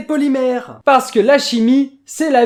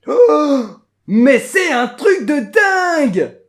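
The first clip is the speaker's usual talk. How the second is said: amazed shout; 2 semitones higher, 4 dB louder, much slower than usual. Acted. Amazed at the gel result.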